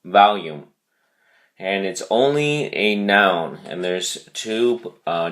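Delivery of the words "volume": "volume" stressed on "vol", falling at the end; "volume" with a firm VOL and a falling close; stress on first syllable. Shown as a demonstration. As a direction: settle on VOL-ume, firmly. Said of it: "the emphasis on the first syllable".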